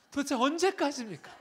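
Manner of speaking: a worn-out believer demanding an answer; exasperated cry. Retold or imitated. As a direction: cry out how long in frustration. Preacher voices exasperated complaint.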